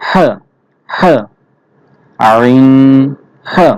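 আইন and হা pressed from the middle of the throat; squeezed throat. Shown as a demonstration. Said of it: "গলা চিপে উচ্চারণ করতে হবে". (গলা চিপে আইন, হা উচ্চারণ)

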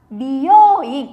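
"Bioin" with a short small yo, said loud. Shown as a demonstration. Teacher modelling "Bioin" for the class with a short yo. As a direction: say "Bioin" crisply, the yo kept short. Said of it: "Từ này sẽ đọc là".

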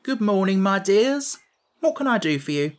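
a genial gatekeeper's hello; pleasant greeting. Acted. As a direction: greet the girls kindly and brightly. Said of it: "Speaking pleasantly to the girls".

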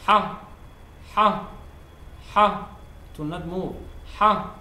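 a forceful throaty Ha, like after spicy food; strong Ha sound. Shown as a demonstration. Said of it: "So, Ha is just strong".

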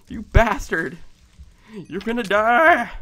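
loud slow menacing threat; angry threat. Real, not acted. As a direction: vow revenge on the skeleton. Threatening skeleton.

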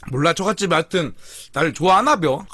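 eating between words; talking while chewing. Real, not acted. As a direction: mouth partly full of food. Seen 0: Bites chicken before, hand at mouth at 1.3, talks throughout.

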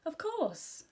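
high-pitched, eager assent; emphatic agreement. A narrator's reading. Amy welcomes Daisy to her sleepover, emphatic agreement. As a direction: agree readily, pitch leaping up.

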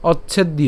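"অচ্ছেদ্য" as och-chhed-iyo; "অচ্ছেদ্য" ending in an audible iyo; joined pronunciation demo. Shown as a demonstration. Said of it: "এই পুরোটিকে যদি আমরা একসাথে উচ্চারণ করি".

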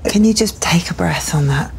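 gentle whispered invitation to pause. Real, not acted. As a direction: soothe him, almost whispering. Therapist gently slows client.

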